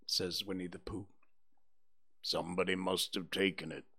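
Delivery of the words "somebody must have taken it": gloomy donkey Eeyore. Acted. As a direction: sigh it out like a sad old donkey.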